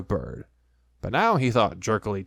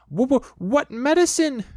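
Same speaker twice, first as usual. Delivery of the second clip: frightened stammer; 5 dB louder than usual. A narrator's reading.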